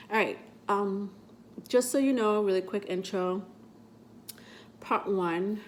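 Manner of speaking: stuffy nose from a cold; blocked nose. Real, not acted. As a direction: talk through a blocked nose. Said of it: "I always sound stuffy".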